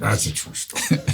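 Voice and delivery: lightly imitated actor at normal volume; a hint of impersonation, voiced at talking level. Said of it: "and he went".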